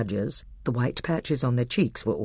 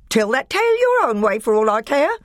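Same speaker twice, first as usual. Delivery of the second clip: higher, louder sneering dwarf; higher scornful dwarf; bitter dwarf; 11 semitones higher, 7 dB louder than usual. A narrator's reading. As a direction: spit it out with contempt. Nick a Brick angry dwarf.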